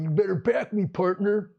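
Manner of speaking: lightly voiced meathead partner; mock tough-guy demand; meathead cop. Cop demanding backup from partner, mock meathead. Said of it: "some meathead going".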